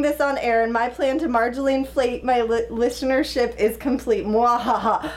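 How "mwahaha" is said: hammed-up evil mwahaha; sneering panto villain laugh. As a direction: gloat like a cartoon villain. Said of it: "Oh, that's a dastardly plan".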